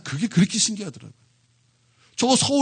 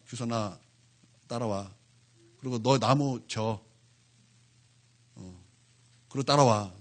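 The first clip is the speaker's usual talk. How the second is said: softer, low, slow mother's orders; hushed, firm commands to the child; mock stern mother; 8 semitones lower, 10 dB quieter, slower than usual. Mother quietly ordering her son to follow.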